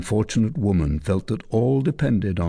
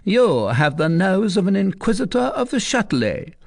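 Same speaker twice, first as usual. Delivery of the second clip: much higher, approving then demanding; pleased commander; 10 semitones higher than usual. Acted. Tristan praising soldier, then ordering recluse. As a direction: praise him, turn on her.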